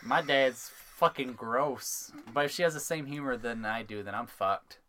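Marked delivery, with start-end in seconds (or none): 0.0-2.1 put-on disgusted teen daughter.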